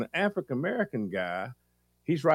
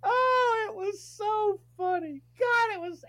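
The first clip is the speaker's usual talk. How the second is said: much higher, laughter breaking through; laughing. Real, not acted. Host recovering from laughter, high laughing voice. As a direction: squeak it out while still cracking up.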